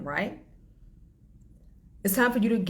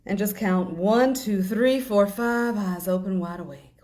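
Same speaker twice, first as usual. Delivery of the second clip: energizing count; 3 semitones higher, 5 dB louder than usual. Acted. Counting back to waking.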